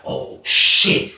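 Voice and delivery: breathy hushed gasp of the onlookers; hushed oh shit. Retold or imitated. Inmates watching, a hushed oh shit. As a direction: whisper it like a stunned inmate. Crowd gasps in the jail.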